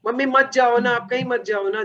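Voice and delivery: mock-tearful kid, lightly voiced; pleading child. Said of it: "बच्चा रोने लग जाता है". (हल्के से नकल की गई रोती बच्चे की मिन्नत)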